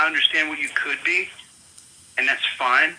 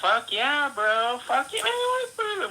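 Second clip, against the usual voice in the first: sarcastic drawl; 12 semitones higher, much slower than usual. Real, not acted. Sarcastic outburst.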